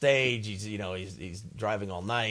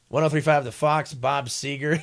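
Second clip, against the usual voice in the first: DJ voice; 4 semitones higher, 6 dB louder than usual. Shown as a demonstration. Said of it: "Okay, here we go".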